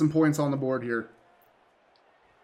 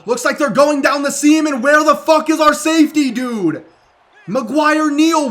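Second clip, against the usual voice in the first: loud, higher, exasperated shouting at his safeties; angry yelling; 6 semitones higher, 7 dB louder than usual. Real, not acted. Gamer yelling at his own safeties for blowing coverage, furious. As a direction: yell at the screen in disbelief. Defense blows coverage on a touchdown.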